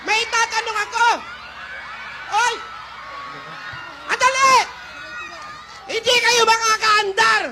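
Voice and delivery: loud, frantic grandma yells; frantic shouting. Acted. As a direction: yell after the thieves in a panic. Grandma yelling at thieves.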